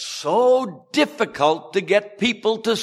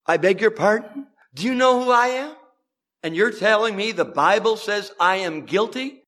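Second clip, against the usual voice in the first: offended disbelief, questions rising at the end; hammed-up outrage at being called guilty; mock indignation; 2 semitones higher than usual. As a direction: play the affronted sinner who can't believe it. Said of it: "it's a question mark".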